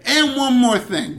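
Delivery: high, slow and loud; dramatic announcement. Acted. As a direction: stretch it out like a big reveal. Dramatic sign-off bit.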